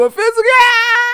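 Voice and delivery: shouted, pitch leaping up; a sudden high excited cry; loud excited yelp. Retold or imitated. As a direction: yelp it out in shock.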